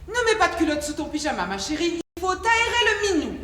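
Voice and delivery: mock motherly advice, rising high at the end; imitated mother. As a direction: imitate a mother instructing her little girl. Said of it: "sa mère lui disait tout le temps". (imitation d'une maman qui sermonne sa fille)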